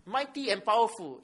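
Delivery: weight on both "Mighty" and "powerful"; stress on mighty and powerful. Shown as a demonstration. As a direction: give "Mighty" and "powerful" deliberate emphasis. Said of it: "Guess what is the emphasis here?".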